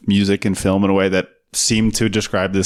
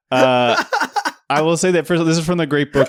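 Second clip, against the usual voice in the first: put-on Russian accent; 8 semitones higher than usual. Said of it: "Can you do a Russian accent?".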